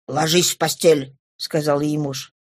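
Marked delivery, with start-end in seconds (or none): 0.1-1.2 low, firm command; tone allowing no objection. Acted. Husband orders his wife to bed, firm low command. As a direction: order it low, closing all argument. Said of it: "Тон его не допускал возражений".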